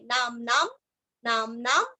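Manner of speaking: नाम नाम with a closed half म; आधा म; half m after ना. Shown as a demonstration. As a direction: close each ना with a clipped म. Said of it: "दोनों ना के आगे आधा म जोड़ना है".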